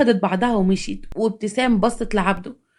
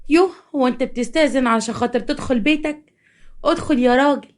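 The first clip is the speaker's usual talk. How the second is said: lightly voiced coquette, pitched up; coquettish woman; 3 semitones higher than usual. Mistress inviting lover into her house, coquettish. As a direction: draw him in with playful mock reproach.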